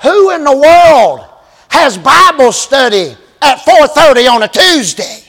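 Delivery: can't believe anyone meets then; incredulous. Retold or imitated. Preacher recalling his own disbelief at the odd time, incredulous. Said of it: "I remember thinking to myself".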